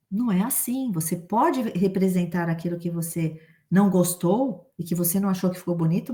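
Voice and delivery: ordinary talk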